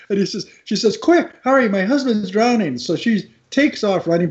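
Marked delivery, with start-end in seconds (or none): 1.0-2.8 higher, urgent cry retold lightly; urgent plea. Wife begs lifeguard to save drowning husband, mock urgent plea. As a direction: imitate a woman urging a lifeguard to act.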